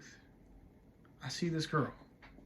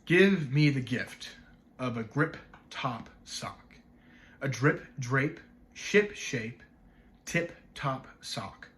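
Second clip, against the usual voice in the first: slow, measured recitation with pauses; poem recital; slower than usual. Acted. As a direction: savor each rhyming word, separately and deliberately. Recites a sound-play poem.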